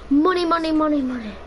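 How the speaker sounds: gleeful chant over the money; excited. Real, not acted. Gamer spots money in the game, excited chant.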